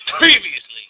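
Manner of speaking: dramatic trailer voice. Shown as a demonstration. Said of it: "Do it in a really dramatic voice".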